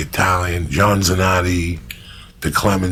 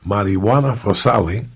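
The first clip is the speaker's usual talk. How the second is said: put-on Cuban accent. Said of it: "this is exactly what he would say".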